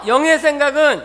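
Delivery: loud proclaiming call; called-out recitation. Real, not acted. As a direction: call it out to the congregation. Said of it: "한번 외쳐보겠습니다".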